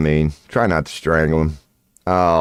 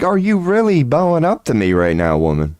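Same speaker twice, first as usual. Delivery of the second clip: retold angry challenge; 8 semitones higher than usual. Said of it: "I was like".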